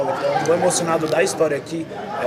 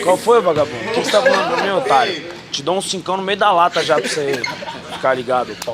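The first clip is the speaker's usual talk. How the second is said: mock tough guy; 4 dB louder than usual. Mock trash talk.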